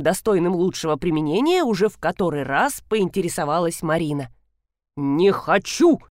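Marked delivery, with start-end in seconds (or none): 5.0-6.0 slow, firm refusal with a rise on хочу; slow defiant "Не хочу!"; flat declaration. Acted. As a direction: announce "Не хочу!" slowly, stressing хочу with a rising end. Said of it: "объявил полковник".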